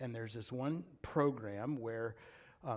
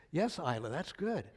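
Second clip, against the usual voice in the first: restrained, mild approval; contained answer, held-back delight; calm, quiet reply; 2 semitones higher than usual. Retold or imitated. Grandpa answering his granddaughter, calm and contained. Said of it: "very calmly and quietly said".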